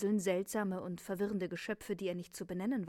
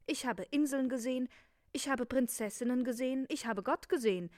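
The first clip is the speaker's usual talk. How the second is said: a touch of reproach, higher and louder; reproachful; 4 semitones higher, 4 dB louder than usual. Acted. Prince back home, reproaching his father, mildly reproachful. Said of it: "sagte der Prinz vorwurfsvoll".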